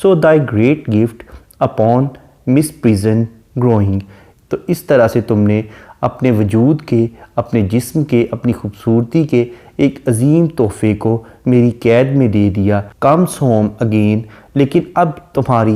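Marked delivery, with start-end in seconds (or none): 0.0-4.0 each word drawn out slowly; slow poem recitation. Shown as a demonstration. Teacher reads a sonnet line to the class, slow and solemn. 13.0-14.2 each word drawn out slowly; slow poem recitation. Shown as a demonstration. Teacher reads a sonnet line to the class, slow and solemn.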